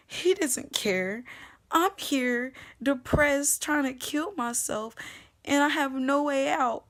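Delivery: despairing. Real, not acted. Despair after breakdown.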